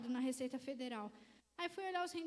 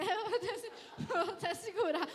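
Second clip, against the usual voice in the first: louder, laughing through the words; 3 semitones higher, 6 dB louder than usual. Real, not acted. Telling the microphone story, laughing. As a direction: laugh while talking.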